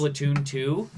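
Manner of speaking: lightly imitated game presenter; excited developer. Podcaster showing how the developer said the title, lightly imitated presenter. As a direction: say the title like a keen developer onstage. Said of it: "Every time he said".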